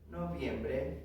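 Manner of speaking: understated echo in Spanish; translation aside. Shown as a demonstration. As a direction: drop down to give the translation. Softer translation after drill call.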